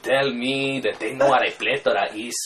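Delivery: put-on Mexican-accented movie bandit; mock-menacing bandit with a Mexican accent; El Guapo. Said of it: "what's fun, for me, is playing with those voices".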